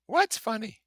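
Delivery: very high, loud, gushing socialite; Daisy's rippling voice. Acted. Daisy gushing to her cousin from the car, very high and bright. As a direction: sing it out like a delighted society girl.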